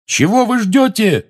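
loud, slow urgent yell. Acted. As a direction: bellow at the frozen crowd. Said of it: "заорал он".

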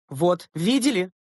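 high, drawn-out exasperation; sighed complaint. A narrator's reading. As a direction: sigh it out as a grievance. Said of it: "вздохнула Клара Борисовна".

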